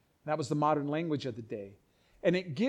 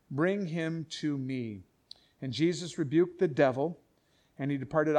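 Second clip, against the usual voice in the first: scripture reading; 3 semitones lower than usual. Acted. Reads scripture aloud.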